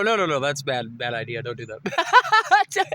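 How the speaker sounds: whimpering mock plea. Imitating himself pleading with the video girl, a mock whimper. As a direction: beg her not to, half crying. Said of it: "And I go".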